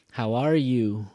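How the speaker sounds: loud "are", then "you" going down; downward question tune. Shown as a demonstration. Teacher corrects learners' question tune, going down. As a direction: ask it with stress on "are", not rising on "you". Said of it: "Go down. We don't go up".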